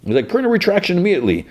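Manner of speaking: high, blustering newsroom boss; pompous fake Perry. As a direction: play the self-important editor. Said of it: "fake Perry's like".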